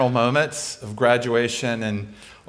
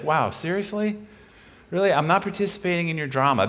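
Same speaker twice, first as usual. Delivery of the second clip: higher, lightly teasing incredulity; imitated amused disbelief; 4 semitones higher, faster than usual. Imitating Jesus answering the speaker's drama, amused disbelief. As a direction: tease as if mildly amused by the fuss. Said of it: "he's like, he's laughing".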